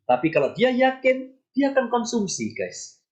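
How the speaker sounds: normal talking voice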